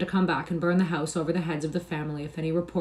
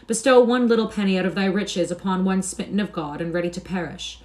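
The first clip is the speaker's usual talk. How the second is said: high, louder, hammed-up pleading whine; wailing beggar plea; 3 semitones higher, 5 dB louder than usual. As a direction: beg a stranger with fake misery. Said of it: "cry out as all the devils of misery".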